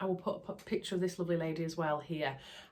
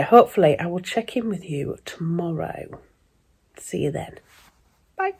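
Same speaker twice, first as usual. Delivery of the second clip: whispering; 11 dB louder than usual. Real, not acted. Signing off softly.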